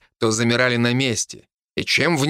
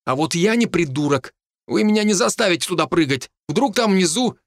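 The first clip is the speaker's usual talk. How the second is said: higher, worried protest; nervous refusal; 5 semitones higher than usual. Acted. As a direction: refuse to budge, pitch climbing with nerves. Scared companion refuses to jump.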